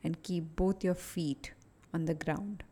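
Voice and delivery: unhurried, even guidance, leaving space between phrases; guided meditation. Acted. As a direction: guide a listener calmly through each breath. Leads a short guided meditation.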